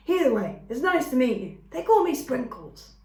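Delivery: a friendly little skunk saying her name. A narrator's reading. Skunk introducing herself to the robot, squeaky and friendly.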